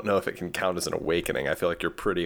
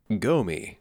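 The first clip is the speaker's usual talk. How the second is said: flat robot monotone. Pretend. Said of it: "like a robot voice".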